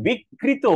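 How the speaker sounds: বিকৃত punched as "bik-krito"; forceful pronunciation. Shown as a demonstration. Teacher shows the too-strong form, forceful pronunciation. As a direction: hit a doubled k in বিকৃত, high. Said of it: "এত জোরালো ভাবে".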